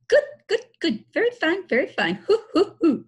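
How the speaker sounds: high, loud birdlike hooting cries; bird-like crying. Acted. Billy flapping round the barn acting crazy, birdlike screeching. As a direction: squawk it out in high, punchy bursts.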